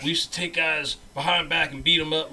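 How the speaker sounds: lightly voiced northeastern American tough talker; northeastern white guy. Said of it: "you know, northeastern white guy".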